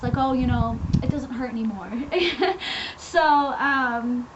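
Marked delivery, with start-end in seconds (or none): 0.2-1.9 mock casual testimony; relaxed, offhand. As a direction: imitate someone lightly shrugging off a healing. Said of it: "it wouldn't be relaxed".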